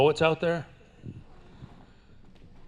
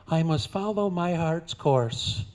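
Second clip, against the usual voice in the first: dramatic cowgirl; 5 semitones higher, slower than usual. Acted. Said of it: "She says".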